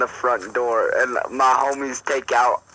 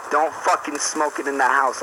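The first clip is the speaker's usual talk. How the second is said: mildly raised retelling of a scolding; ranting mom; 3 semitones higher than usual. Retold or imitated. Mom catching her son smoking, mild mock rant. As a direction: imitate a mom going off, lightly. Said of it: "she went off on this big ol' rant".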